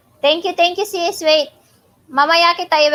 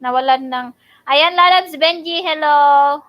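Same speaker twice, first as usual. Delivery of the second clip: loud excited greeting, high; calling out a happy hello; excited shout; 7 semitones higher, 9 dB louder, much faster than usual. Real, not acted. Excited greeting shouted over bingo.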